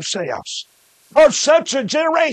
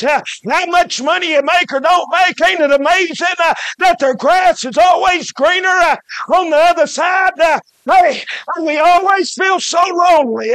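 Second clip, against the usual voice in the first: rising revival preaching, every line ringing out; full-force preaching; 3 semitones higher than usual. Acted. Preacher telling lonely listeners that God cares, in rising full-force preaching. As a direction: lift the church up to a shout about a caring God.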